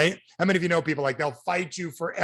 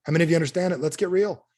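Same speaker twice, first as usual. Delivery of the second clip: ordinary talk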